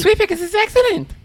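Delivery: high commercial announcer voice; cheesy old TV ad voice; ad jingle voice. Retold or imitated.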